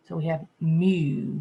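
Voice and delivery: "mu" with a long U said like its name, slowly. Shown as a demonstration. Teacher showing the long vowel, slow and clear. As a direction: draw out the U in "mu". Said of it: "U is saying his name".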